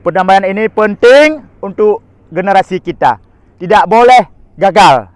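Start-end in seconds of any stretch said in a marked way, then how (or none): 3.5-5.1 loud and slow, each word pressed hard; emphatic declaration. Real, not acted. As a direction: hammer home that it must not fail. Urges peace must not fail.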